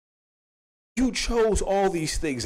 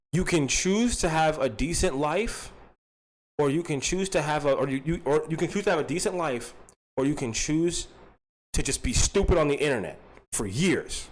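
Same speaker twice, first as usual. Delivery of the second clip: put-on talking to a child. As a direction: spell it out gently for a small child. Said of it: "you talk to him like a little kid".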